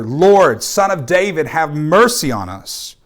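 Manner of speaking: a loud cry on Lord, then a slowed, pleading have mercy on us; mild shouting plea. Acted. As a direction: cry out to Jesus, half-acted. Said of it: "they only shouted even louder".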